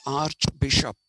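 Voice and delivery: "archbishop" said with ch as in church; ch sound in archbishop. Shown as a demonstration. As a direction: say "archbishop" as arch-bishop. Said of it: "we say archbishop".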